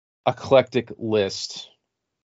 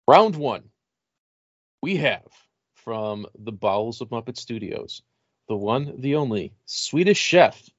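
monster truck ad. Acted. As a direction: build it up like a fight promo. Announcing fighters like monster truck.

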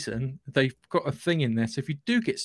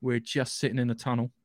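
Rocket impression. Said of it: "you hear Rocket going".

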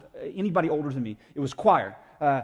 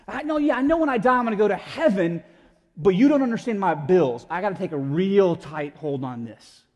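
lightly acted, louder objection; mock anxious protest; 6 dB louder than usual. Believer arguing with God about the bills, mock anxious protest. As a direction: push back with mild urgency. Voices believer clinging to control.

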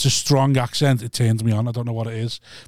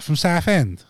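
put-on Essex accent; 3 semitones higher, slower than usual.

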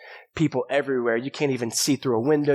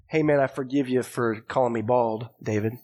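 casual dude voice; 3 semitones lower than usual. Pretend. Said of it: "Yeah, I know that voice".

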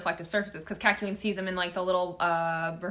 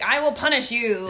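put-on higher, louder magical girl declaration; bright magical girl; 4 semitones higher, 6 dB louder than usual. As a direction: strike a hammy anime heroine pose with your voice. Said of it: "this very magical girl speech".

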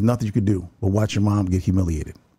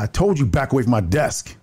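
higher-pitched mock yell, little added volume; imitated sergeant's yell; 4 semitones higher than usual. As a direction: bark it lightly like the retold sergeant. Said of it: "yelling at me again".

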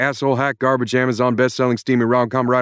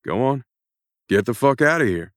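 higher and louder, shouting curses at the author; furious rant; 4 semitones higher, 6 dB louder than usual. Acted. Jack Irons yells at the writer who created him, furious. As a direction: let rip at her like a fed-up hero. Character breaks frame, rants at author.

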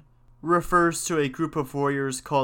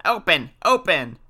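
raised, louder cry of witches; witches' scream; 4 semitones higher, 5 dB louder than usual. A narrator's reading. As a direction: demand entry as screaming witches, without a full scream. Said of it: "they screamed".

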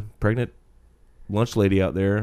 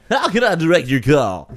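phone receptionist voice; 6 semitones higher, 5 dB louder than usual. Shown as a demonstration. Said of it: "how I answer the phone at work".

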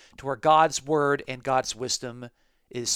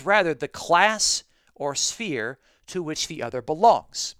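quoting Barclay; 3 semitones higher, 3 dB louder than usual. Retold or imitated. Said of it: "says this".

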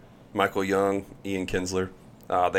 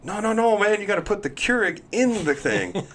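exasperated teammate; 12 semitones higher than usual. Retold or imitated. Colby correcting him, retold.

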